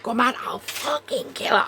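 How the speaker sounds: rising, furious retort; angry outburst. Retold or imitated. Telling Kath off in a rage, angry. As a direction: snap back in a rage at the coworker. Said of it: "I was raging".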